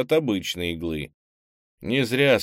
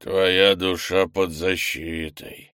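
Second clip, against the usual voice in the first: regretful monster; 3 dB louder, slower than usual. Acted. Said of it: "с сожалением сказал".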